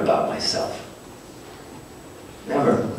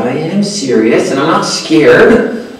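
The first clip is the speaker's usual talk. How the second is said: indignant; 5 semitones higher, slower than usual. Retold or imitated. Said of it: "that just rubbed me wrong".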